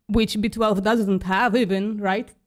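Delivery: talking while choking on coffee; coffee caught in the throat; choking on a drink. Real, not acted. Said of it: "choking on my coffee".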